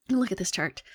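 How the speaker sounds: ため息まじりのささやき; 息だけで、呆れたように; exasperated whisper. Acted. Sighing, exasperated aside.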